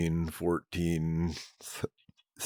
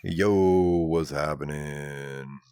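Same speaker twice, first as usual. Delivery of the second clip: deep voice; 4 semitones lower, much slower than usual. Shown as a demonstration. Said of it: "I just talk my normal".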